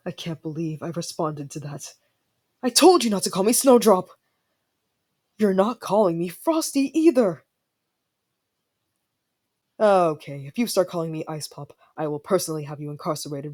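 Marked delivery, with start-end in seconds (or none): 2.6-7.4 indignant scolding. Acted. Scolding over a nickname.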